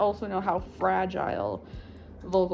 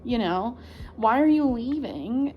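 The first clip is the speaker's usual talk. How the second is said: exasperated rant; 3 semitones higher than usual. Retold or imitated. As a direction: scold the people walking out. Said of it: "I was like".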